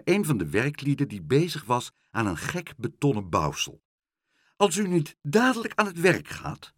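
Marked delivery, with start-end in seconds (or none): 4.6-6.7 high, indignant threat; raised, scolding voice; calling out. A narrator's reading. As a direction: call out a stern warning, pitched up. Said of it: "riep ze".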